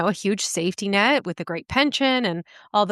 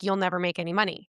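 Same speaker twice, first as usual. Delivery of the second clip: blunt tone, quieter; 2 semitones lower, 6 dB quieter than usual. Retelling what an older gym participant flatly told them: imitating a blunt remark. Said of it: "she just flat out was like".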